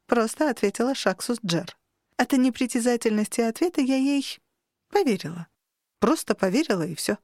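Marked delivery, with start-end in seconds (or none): none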